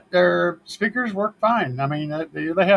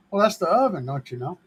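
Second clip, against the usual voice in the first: lightly put-on Canadian lilt; Canadian accent; 2 semitones higher, faster than usual. Homeowner explains the oven to visitors, mock Canadian accent. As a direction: answer with a playful Canadian accent. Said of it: "That's my, my, uh, Canadian accent there".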